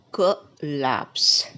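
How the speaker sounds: "Collapse" as kuh... LAPS; stress on last syllable. Shown as a demonstration. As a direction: split "Collapse" and lean on LAPS. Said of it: "stress on the last syllable".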